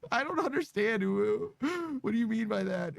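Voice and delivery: high, breathy cutesy voice; breathy cutesy ooh. Pretend. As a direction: coo each ooh like a cute whine. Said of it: "for me to count ooh as a word".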